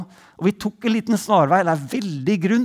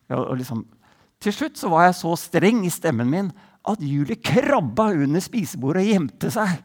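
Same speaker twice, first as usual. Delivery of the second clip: usual speaking voice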